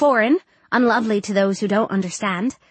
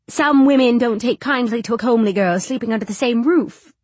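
disapproving matron; 4 dB louder than usual. Acted. Voices the matron explaining.

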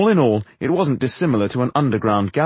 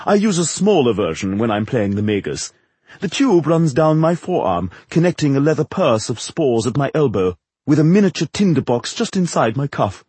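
higher, affected theatrical voice; proud showman actor; 4 semitones higher than usual. Acted. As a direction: show off the secret of the trick. Actor proudly explains his trick.

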